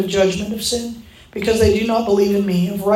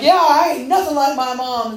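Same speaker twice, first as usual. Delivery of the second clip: higher, sassy mock retort; defiant boasting; 4 semitones higher than usual. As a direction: play up the proud denial. Repeats her defiant boast.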